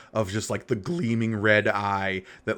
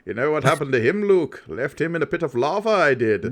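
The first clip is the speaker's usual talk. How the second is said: put-on ornery old Obi-Wan; 3 semitones higher than usual. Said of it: "Ornery old man Obi-Wan".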